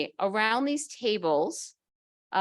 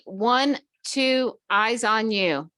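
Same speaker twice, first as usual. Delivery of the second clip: kindergarten class response; 5 dB louder, much slower than usual. Shown as a demonstration. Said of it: "And you repeat".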